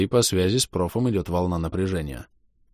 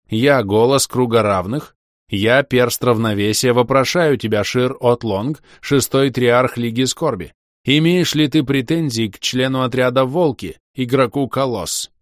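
slow, louder, resounding; booming voice; 5 semitones higher, 6 dB louder than usual. Acted. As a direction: intone it like an oath. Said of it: "стал объёмным и всепроникающим". (торжественный гулкий голос)

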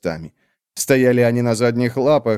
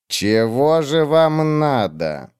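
cold witch; 3 semitones higher, much slower than usual. Acted. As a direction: drag each word out, icy and dismissive. Olar Ethil slow.

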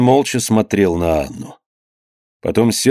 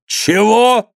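high-pitched outraged question; indignant cry; 12 semitones higher than usual. A narrator's reading. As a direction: cry out in angry disbelief. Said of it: "крикнул Иван". (возмущённый вскрик)

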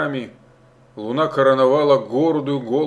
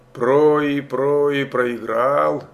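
cooing pigeon voice; much slower than usual. Acted. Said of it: "заворковал белый голубь".

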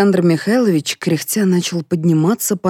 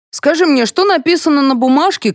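high raised colonel voice; colonel quizzing; 11 semitones higher, 5 dB louder than usual. A narrator's reading. Colonel quizzing the narrator, high and loud. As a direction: demand it like a drill sergeant.

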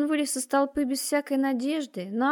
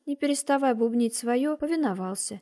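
plain reading voice

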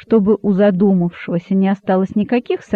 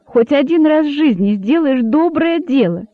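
higher, happy exclaiming; gleeful, raised voice; joyful; 6 semitones higher than usual. Acted. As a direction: rejoice at the boa's good deed. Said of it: "радостно воскликнул кролик".

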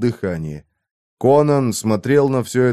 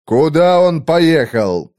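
growling; 5 semitones higher, 4 dB louder, slower than usual. A narrator's reading. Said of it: "прорычал Конан".

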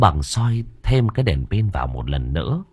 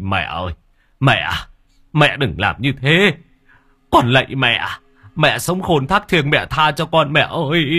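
wailing plea; 5 semitones higher than usual. A narrator's reading. Son wailing to his mother's coffin, begging tearfully. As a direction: beg through tears, voice lifted high.

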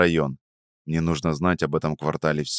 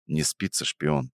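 quiet; 2 semitones lower, 6 dB quieter than usual. A narrator's reading. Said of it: "тихо спросил я".

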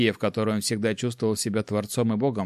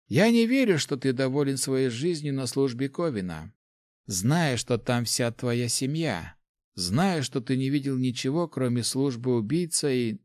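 put-on old rector voice; 3 semitones higher than usual. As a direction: speak as a kindly old master. Rector speaks.

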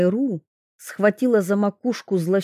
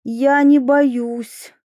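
calm repetition; 5 semitones higher, 4 dB louder, much slower than usual. A narrator's reading. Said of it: "повторила Майра".

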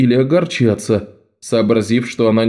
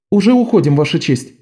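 put-on higher girl's voice, eager to please; bow and answer meekly, pitched up; higher, submissive street girl; Bet, bowing; 7 semitones higher, faster than usual. A narrator's reading. Bet leaving.

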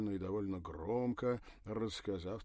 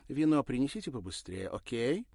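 curt; 5 semitones higher, 9 dB louder than usual. Acted. Irina orders curtly.

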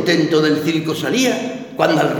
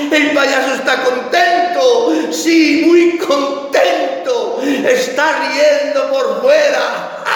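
higher, slow, strained mock cheer; forced cheer; 6 semitones higher, slower than usual. Grieving clown telling the audience he's happy, forced cheer. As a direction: play happy while breaking inside.

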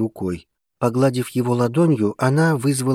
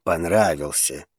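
hoarse; 5 semitones lower than usual. Acted. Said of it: "прохрипел Вулкан".

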